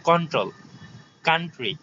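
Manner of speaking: "কন্ট্রোল", "কান্ট্রি" with plain k, no puff; dry k in "কান্ট্রি"; unaspirated K. Shown as a demonstration. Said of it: "এগুলা এটা হবে না".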